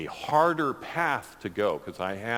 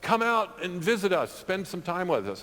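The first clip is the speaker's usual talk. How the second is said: friend's voice; 8 semitones higher than usual. Retold or imitated. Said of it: "And he says".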